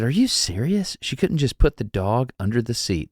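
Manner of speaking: a little whine, seeking sympathy; mild whining complaint; whiny complaint. Retold or imitated. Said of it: "doing the thing where I whine a little bit".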